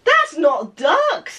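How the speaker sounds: put-on slow baby-book voice, "That's not ducks!" drawn out; talking to little nephews. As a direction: read it like a toddler's picture book. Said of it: "I said it like I was speaking to my nephews".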